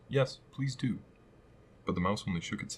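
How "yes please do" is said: eager chorus. Acted. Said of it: "joined in chorus".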